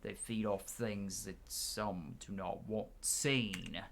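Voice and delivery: slow, looming, secretive drawl; hint at secrets like a shady guide; slow, dark storyteller voice; ominous stranger. Acted. Voicing a mysterious NPC.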